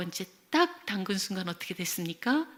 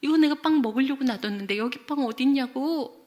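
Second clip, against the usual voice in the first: higher, raised mock-indignant complaint; acted anger; 5 semitones higher, 4 dB louder than usual. Child protests to mother over saved bread, angry. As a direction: imitate a cross kid protesting. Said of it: "그러면서 막 화를 내는 거예요".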